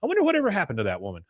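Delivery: Peggy. Retold or imitated. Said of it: "She goes".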